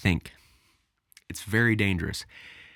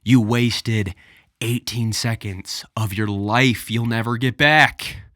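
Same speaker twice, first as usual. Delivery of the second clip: exasperated; 6 dB louder than usual. Real, not acted. Mocking the clickbait video.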